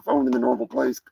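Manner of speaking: a cocky cartoon turkey boasting; turkey character.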